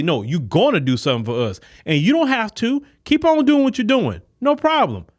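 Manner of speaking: high, breezy dismissal; mock confident voter. Voters telling a politician off, breezy high dismissal. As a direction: wave the politician off lightly.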